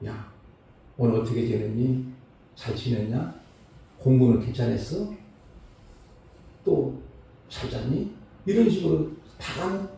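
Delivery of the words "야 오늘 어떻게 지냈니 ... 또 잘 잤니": low, gently caring questions; kindly, affectionate. Retold or imitated. Retired principal turned guard greeting troubled students, kindly and affectionate. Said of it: "참 다정다감하게".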